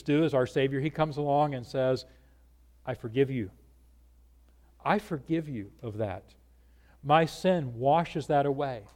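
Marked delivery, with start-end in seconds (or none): 2.8-8.8 softer and lower, gentle Savior's words; hushed, reassuring forgiveness; tender forgiveness. Acted. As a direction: speak it like a quiet pardon to one person. Jesus speaks forgiveness to sinner.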